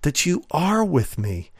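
thankful prayer, lifted at the start; prayer of praise. Acted. Believer thanking the Lord before an exam, in praise. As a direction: pray it as confident thanks, stressing "are". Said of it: "we can say in praise".

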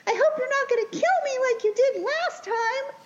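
high, squeaky pleading little voice; talking fetus. Retold or imitated. Fetus begging Marilyn in the film, high little voice. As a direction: plead in a tiny high-pitched voice. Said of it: "And the fetus is like".

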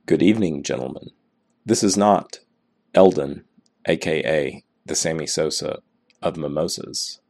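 vocal fry. Real, not acted. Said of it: "Don't let the vocal fry throw you off".

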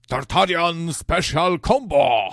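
loud, high, slow combo shout; fighting game announcer. Pretend. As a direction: yell the move name like an arcade game. Announcing special fighting move.

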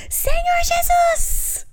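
very high, drawn-out prayer yell; imitated child's scream. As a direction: shriek it slowly like a tiny preacher. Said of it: "grita assim".

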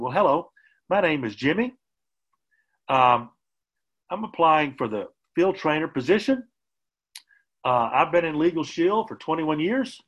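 each sentence ends on a rising question tune; upspeak demo. Shown as a demonstration. Trainer applicant introducing himself, every ending rising in upspeak. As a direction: sound unsure, lifting every line's end like a question. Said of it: "but that would be if I said".

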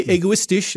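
"egoistisch" said the German way, ending in "isch"; German pronunciation. Shown as a demonstration. Guest comparing languages on the show, German word said natively. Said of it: "it's egoistic".

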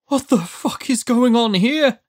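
high-pitched, strained demand; panicked rasp. A narrator's reading. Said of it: "no more than a rasp".

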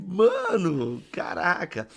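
mock-stunned, pitch leaping up then easing; retold amazement. Reconta espanto ao encontrar alguém. (espanto recontado)

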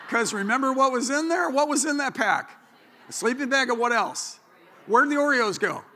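loud, high rhetorical questions; rally the crowd with the punchline; excited. Acted.

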